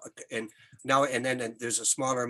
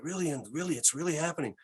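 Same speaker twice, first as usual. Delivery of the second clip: put-on Québécois accent; 4 dB quieter than usual. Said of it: "I'm gonna use an accent".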